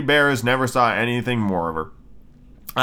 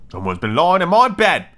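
lightly gruff bear, somewhat higher; great gruff bear; 5 semitones higher, 3 dB louder than usual. Acted. Great big bear finding his pillow moved, mildly gruff voice. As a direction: raise it a little, keep the bear rough. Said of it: "in his great gruff, rough voice".

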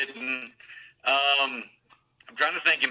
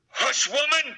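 put-on high-pitched little boy scolding; mimicking a small child, pitched way up; little son's outburst; 11 semitones higher, slower than usual. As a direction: pipe up high, like a bossy toddler. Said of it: "and then it's, you hear this".

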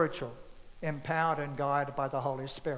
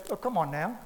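tender Jesus; 5 dB quieter than usual. Retold or imitated. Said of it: "Just the tenderness of Jesus".

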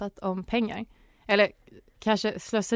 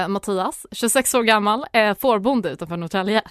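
put-on Stockholm accent; 4 dB louder than usual. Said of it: "får jag göra det här på stockholmska?".

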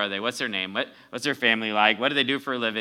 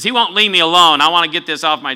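insistent friend; 5 semitones higher, 11 dB louder than usual. Retold or imitated. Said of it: "He says".

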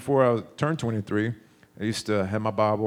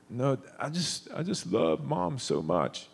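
put-on higher, slow, tender child's voice; little boy voice; 4 semitones higher, 4 dB quieter, slower than usual. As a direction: voice a teary, grateful little boy. Child answering parents while crying.

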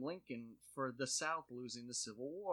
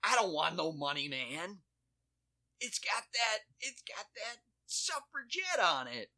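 high, loud hick voice; mock racist customer; 8 semitones higher, 6 dB louder than usual. Cashier parodying the racist customer rejecting money. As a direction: ham up a bigoted yokel. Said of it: "you're literally like".

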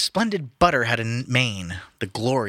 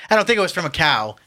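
laughing rereading; 7 semitones higher, 5 dB louder, faster than usual. Real, not acted. Rereading line after laugh.

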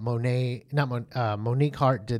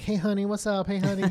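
light imitation of a Southern cashier, a bit higher; 7 semitones higher than usual. Imitating the late-night Walgreens lady's Southern greeting. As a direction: sing out a friendly Southern greeting, lightly done. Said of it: "you know, like she talks".

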